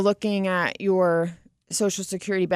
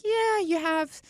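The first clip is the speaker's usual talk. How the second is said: much higher and slow, a hammed-up advisor delivering doom; mock-deliver a death sentence, slowly; mock grim verdict; 10 semitones higher, slower than usual. Advisor to client in imagined meeting, mock grim and slow. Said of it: "I was like".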